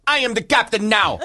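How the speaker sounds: mock hijacker. Pirate-style hijacker voiced.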